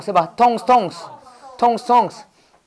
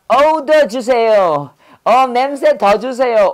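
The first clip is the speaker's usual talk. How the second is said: drawn-out, playful begging for more smell; relishing a stink mnemonic; 3 semitones higher, 3 dB louder, slower than usual. Pretend. Teacher playing someone sniffing poop to teach "odor", hammed-up craving. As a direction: ham up craving a foul smell, stretching the words. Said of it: "똥냄새 맡고 뭐야".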